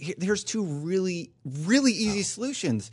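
lightly voiced patronizing dad; condescending dad voice. Host soothing worried streamers with easy fixes, mildly condescending dad. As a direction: reassure like a dad talking down to a kid. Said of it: "that condescending dad voice".

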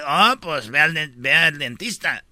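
low British-style reply; English accent. Acted. Englishman advises the dentist, English accent. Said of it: "En Inglaterra dice".

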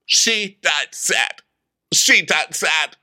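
slow, solemn mock pronouncement; Vicky. Dictating her own epitaph, slow mock solemnity. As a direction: space out each word mournfully. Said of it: "And Vicky tells them".

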